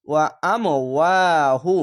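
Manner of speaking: "ওয়া আম ওয়াহু", push on আম, long second ওয়া; jolting emphasis. Shown as a demonstration. Teacher recites the word for learners, jolted then stretched. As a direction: hit আম, then draw out the ওয়া slowly. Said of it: "ধাক্কা মেরে".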